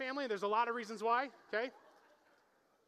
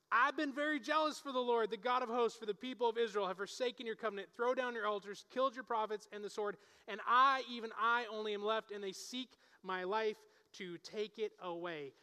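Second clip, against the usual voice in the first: mock temper tantrum. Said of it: "back to his temper tantrum".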